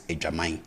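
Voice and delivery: Edwaman with the final an said as ein; Twi ending. Shown as a demonstration. Teacher shows the Twi ending of Edwaman. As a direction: end Edwaman on a nasal ein. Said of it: "Now, I say".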